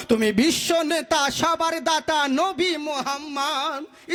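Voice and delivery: briskly chanted praise verse; speeded-up naat. Shown as a demonstration. Preacher showing his hurried naat, quick chant. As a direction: chant it through quickly, little lingering. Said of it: "স্পিডে বলেছি".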